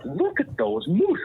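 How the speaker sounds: slow, high mock exclamation; outdoor voice. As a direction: mimic an outdoor voice, high and stretched out. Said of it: "in a full, like, outdoor voice".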